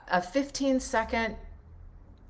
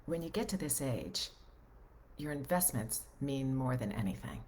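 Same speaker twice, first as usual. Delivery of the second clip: softer, understated financial voiceover; low-key, measured spot read with pauses; 5 semitones lower, 8 dB quieter than usual. Shown as a demonstration. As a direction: read it like a quiet investment commercial. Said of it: "I'm doing, you know, a, a financial thing".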